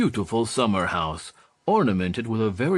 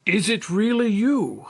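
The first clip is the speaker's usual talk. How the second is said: stunned disbelief; 11 semitones higher, 4 dB louder than usual. Acted. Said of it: "said the commandant".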